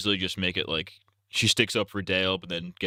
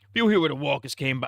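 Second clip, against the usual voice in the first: higher put-on Shane voice, accent reined in; retry the Shane accent, less high-pitched; lightly voiced Shane; 6 semitones higher, faster than usual. Shane confronting Rick over Lori, milder accent. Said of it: "I don't know why he switched his accent".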